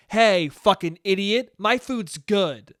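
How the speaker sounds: slow, drawn-out mock telling-off; lightly acted irate parent, each word stretched; mock scolding. Imagined parent putting a rude kid straight, mildly angry.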